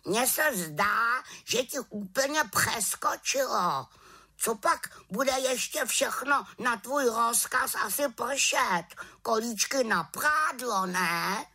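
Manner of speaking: high sarcastic raven voice; mocking raven. A narrator's reading. Raven teasing the little witch, high sarcastic voice. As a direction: tease her sharply.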